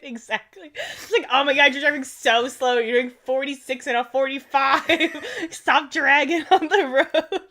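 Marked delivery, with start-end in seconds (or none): 1.3-7.4 louder, half-laughing annoyed driver; mild retold road rage. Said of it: "I was getting angry driving home".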